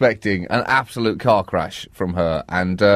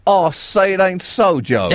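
folksy Palin quote; 5 semitones higher, slower than usual. Retold or imitated. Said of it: "saying at one point".

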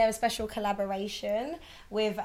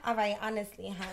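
put-on Brooklyn accent. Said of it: "Can you do a good Brooklyn accent?".

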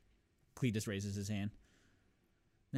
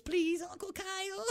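put-on higher, small child's pleading voice; little boy begging; 4 dB quieter than usual. Little son begs Uncle Kyle to let the family stay, high childish plea. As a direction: beg sweetly like a little kid. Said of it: "the little Cartman boy, he goes".

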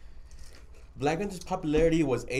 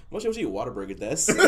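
mock Japanese accent. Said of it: "in my head, it's like".

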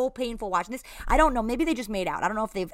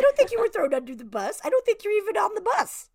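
incredulous sarcasm; 12 semitones higher, 5 dB louder than usual. Real, not acted. Exasperated sarcastic retort.

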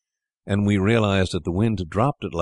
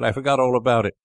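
higher, startled gleeful recollection; a hint of a boy catching his breath at a memory; boy's sudden realisation; 7 semitones higher than usual. Brother in bed to siblings, startled realisation.

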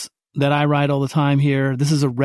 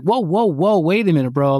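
sudden higher louder whoa whoa; surprised protest; 3 semitones higher, 3 dB louder than usual. Retold or imitated. Buyer on the phone hearing the higher price, startled. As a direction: stop them short, caught off guard.

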